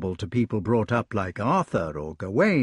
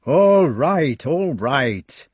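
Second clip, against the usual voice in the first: grumpy knight; 3 semitones higher, 5 dB louder, much slower than usual. Acted. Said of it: "a hideous scowl on his face".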